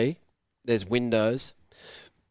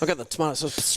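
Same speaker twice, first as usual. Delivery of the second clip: unvoiced conspiratorial whisper; 3 semitones higher, much faster than usual. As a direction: breathe it as a secret. Whispered aside in retold prank.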